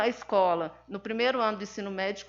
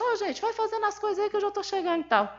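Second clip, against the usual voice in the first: put-on high, far-carrying call down to the kids below; 11 semitones higher than usual. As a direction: yell down to the court, casual and bossy. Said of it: "começou a dar, gritar pro povo lá embaixo".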